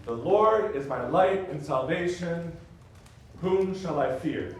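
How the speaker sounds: slow, weighted stresses on Lord, light, salvation; three two meter. Shown as a demonstration. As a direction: lean on each beat slowly. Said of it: "Three two".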